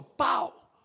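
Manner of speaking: single vocal gunshot bang; punchy "pau" sound effect; imitated gunshot. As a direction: mimic a shot going off. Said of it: "comecei a escutar uns tiros".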